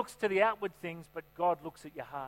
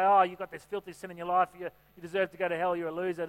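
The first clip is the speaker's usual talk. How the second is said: accusing devil; 5 dB louder than usual. Retold or imitated. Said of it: "The devil will come and condemn you and say".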